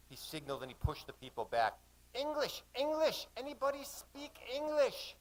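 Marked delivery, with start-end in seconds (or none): 2.1-5.2 higher calling shout across the water. Acted. Mate calling out to the canoes for an English speaker. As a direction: call out to the canoes. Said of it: "he shouted out".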